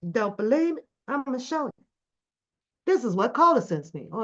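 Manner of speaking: ordinary talk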